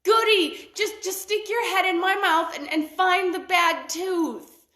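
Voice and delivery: high, eager crocodile voice; sly delight, then slow coaxing. A narrator's reading. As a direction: crocodile luring the ostrich. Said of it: "The crocodile said".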